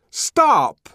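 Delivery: high, ringing shout; loud commanding cry. A narrator's reading. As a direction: call a halt across a room. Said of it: "in a loud and ringing voice".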